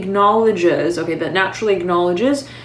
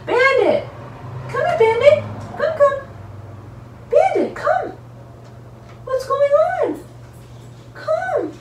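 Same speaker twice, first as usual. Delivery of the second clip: high sing-song pet call, much higher; calling the dog. Real, not acted. Owner calling her dog Bandit to come over, high coaxing call.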